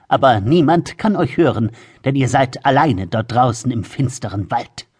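threatening tone. Acted. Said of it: "fuhr in drohendem Ton fort".

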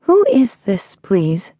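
high, guarded phone enquiry; careful. A narrator's reading. Woman answering an unknown caller, careful. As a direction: ask carefully, starting high. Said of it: "She said carefully".

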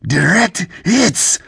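high, drawn-out excited cry; exclaiming. A narrator's reading. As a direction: exult over the hit, slowly punched. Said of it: "Sarad exclaimed".

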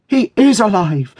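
high, loud cry of joy; joyful shriek. A narrator's reading. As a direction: shriek the good news in ecstasy. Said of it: "shrieked Dot".

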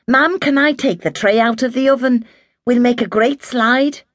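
put-on eager little boy asking his mum for the tray; begging boy. A narrator's reading. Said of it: "Tommy begged".

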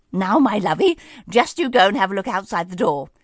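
put-on a touch of a fond old lady; kindly fairy godmother. Fairy godmother sends Cinderella to the door, fond. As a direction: coax her gently to look. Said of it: "said the fairy godmother".

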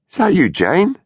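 calling out. A narrator's reading. Calling into dark house.

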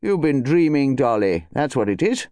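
mildly soothing husband; kindly. Acted. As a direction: gently humour your wife. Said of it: "He said kindly".

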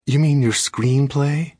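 wife needling the husband, stressing "screenplay" slowly; pointed emphasis. A narrator's reading. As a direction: drag out "screenplay" with a sneer in it. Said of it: "the emphasis she put on the word".

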